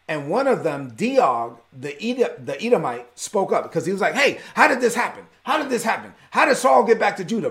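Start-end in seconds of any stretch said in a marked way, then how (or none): 4.1-7.5 mildly agitated higher-pitched demanding questions; upset king. Acted. Upset king questioning his men about David's return, agitated. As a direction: fire off upset questions, slightly hammed-up. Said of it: "he's really upset".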